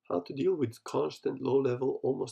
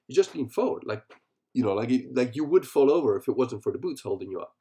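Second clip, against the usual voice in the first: lightly voiced coaching tip; ski instructor; 4 dB louder than usual. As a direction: relay her advice with a lift. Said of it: "She says".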